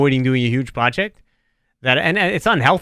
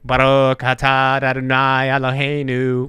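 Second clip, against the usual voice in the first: mock blessing; slower than usual. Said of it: "which is like when you say before meals".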